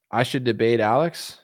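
whispered musing question to himself. Real, not acted. Streamer reacting to a chat suggestion, whispered aside. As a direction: hush it like a private aside.

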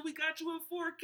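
high pitched imitation; high mock quote. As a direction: squeak it out. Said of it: "He said".

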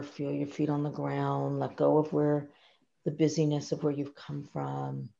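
gentle, calm guiding voice; calm grounding exercise. Shown as a demonstration. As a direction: talk a client into the moment. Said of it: "taking a moment together to say".

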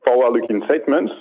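put-on thick French accent. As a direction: read it in a heavy French accent. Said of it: "a safe harbor statement with a very thick French accent".

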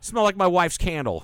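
high, fake whimpering voice; hammed-up weepy whine; mock crying.

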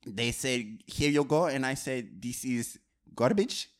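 a light, hammed-up French accent. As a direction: play a self-important French director. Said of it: "I love your French accent".

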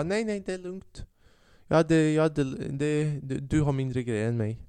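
lightly voiced confused old man.

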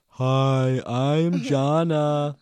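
loud, high, drawn-out mock kid voice; Jana. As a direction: exaggerate a child's greeting at full volume. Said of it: "You sound like this".

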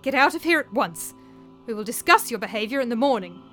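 angry order. A narrator's reading. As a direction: order the servant out at once. Mistress ordering nurse out.

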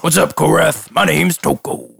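lightly voiced dim fisherman; a hint of a cheerful simple NPC; Toko voice.

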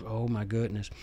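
breathless little whisper of delight; whispered aside. Real, not acted. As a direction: hush it to yourself. Excited aside about book club.

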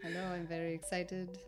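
mild, even put-on South African accent; lightly voiced South African contestant. The contestant introduces himself on the quiz, mock South African accent. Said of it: "unintelligible accent. People say it's very unique".

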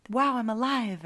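playfully overdone delight; mock enthusiasm. Shown as a demonstration. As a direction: demonstrate a peppy cheer. Models a cheerful alternative saying.

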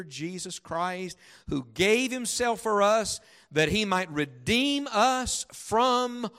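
slow, emphatic Bible reading; declaimed scripture, with deliberate pauses; solemn scripture reading. Acted. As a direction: read it out with weight, drawing out key words. Reads Scripture aloud emphatically.

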